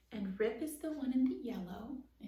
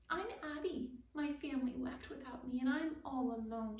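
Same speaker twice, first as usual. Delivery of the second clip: woeful; 4 semitones higher than usual. Acted. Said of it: "she meowed woefully".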